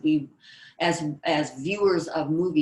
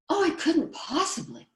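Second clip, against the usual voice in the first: put-on much higher, timid girlish voice; shy; 12 semitones higher than usual. Shy girl declining a date, timid and high. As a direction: shrink back as you say it. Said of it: "how about a shy trait?".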